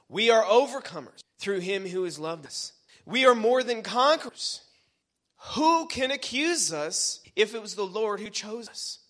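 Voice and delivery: triumphant pulpit declaration; ringing preacher's challenge; emphatic preaching. Real, not acted. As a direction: proclaim it boldly to the congregation.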